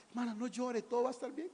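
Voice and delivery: quiet pastoral comfort; soft consoling. Acted. Pastor to mourning sister, soft consoling. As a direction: hush a mourner gently.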